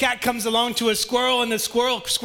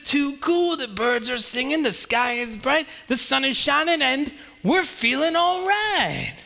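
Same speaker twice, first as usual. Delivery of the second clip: cheerful Pete; 5 semitones higher, slower than usual. Acted.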